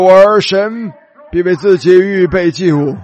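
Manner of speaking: slow, steady, unwavering father's answer; 坚定不颤. Retold or imitated. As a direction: answer your son firmly, without a tremor. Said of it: "这声音里边没有一丝颤抖". (沉稳坚定、毫不颤抖地慢慢说)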